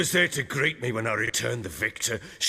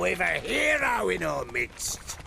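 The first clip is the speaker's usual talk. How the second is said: boisterous toast; 8 semitones higher than usual. Acted. Drunk baron toasting loudly.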